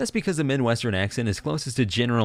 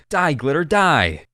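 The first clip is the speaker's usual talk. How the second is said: loud, high mock-furious yell; mock battle shout; 4 semitones higher, 5 dB louder, much slower than usual. Glitter thrower attacking the pale vampire, loud mock shout.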